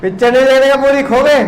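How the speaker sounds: loud scolding burst at the class; angry shout. Real, not acted. Teacher shouting at distracted students, loud angry scold. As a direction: yell at them to stop taking pictures.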